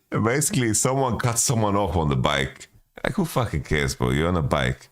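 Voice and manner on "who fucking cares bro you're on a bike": ordinary talk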